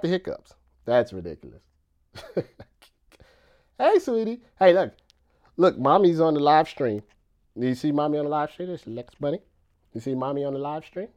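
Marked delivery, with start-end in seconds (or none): 3.8-11.1 higher sing-song pet talk; sweet talk to a puppy; cooing to the puppy. Real, not acted. Baby talk to the dog.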